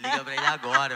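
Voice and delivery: high, loud urgent shout to his mother; desperate shout. Retold or imitated. Teen in hospital shouting at his mother to call the pastor now, desperate loud shout. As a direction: yell it like the news just broke you.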